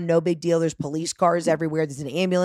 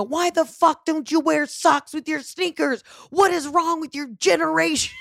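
exasperated scolding; 9 semitones higher than usual. Retold or imitated. Scolding her mother mid-crisis.

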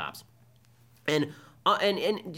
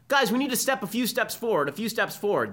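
raised, higher call to the group; rally the crowd forward, half-shouted; mock call to the crowd; 8 semitones higher than usual. Official calling students to push forward, mock call. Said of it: "yells to the crowd".

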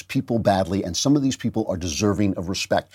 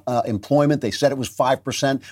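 ordinary talk, nothing marked

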